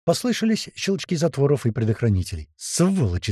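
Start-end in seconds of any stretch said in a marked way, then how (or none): 2.6-3.3 a restrained, higher angry cry. Acted. Hobot curses the attackers, mild angry cry. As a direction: curse them from afar, without full volume. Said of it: "закричал Хобот".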